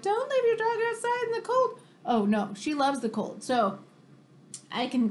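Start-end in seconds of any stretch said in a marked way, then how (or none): 0.0-1.8 higher mock-scolding warning; a hint of a worried scold; scolding people. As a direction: imitate nagging passersby, lightly. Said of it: "People are like".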